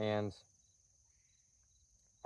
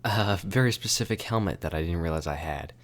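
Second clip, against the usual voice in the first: muffled voice inside a helmet; muffled, louder through the helmet; talking inside helmet; 3 semitones lower, 5 dB louder than usual. Real, not acted. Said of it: "putting my helmet on".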